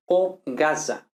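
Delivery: zona, slowly; slow careful Z. Shown as a demonstration. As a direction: say zona deliberately. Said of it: "por ejemplo".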